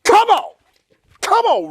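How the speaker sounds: high, loud pleading shout; excited yelling. Real, not acted. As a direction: cheer the shot home. Urging shot, yelling.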